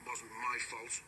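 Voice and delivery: sulky engine voice, lightly voiced; a sulking engine muttering excuses. A narrator's reading. Sixteen sulkily blaming the trucks to his driver. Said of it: "muttered sixteen sulkily".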